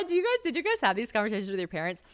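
normal talking voice

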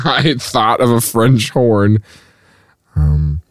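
laughing. Real, not acted. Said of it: "I can't say it without laughing".

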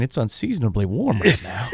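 lightly voiced old man remark. Co-host imitating an old man grumbling about the weather, lightly voiced old man. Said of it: "That old man is saying".

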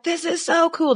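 high gushing "This is so cool."; excited gush. Retold or imitated. Telling her co-host how she gushed at work. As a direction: gush like a delighted kid.

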